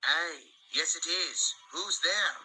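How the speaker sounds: Douglas. Acted.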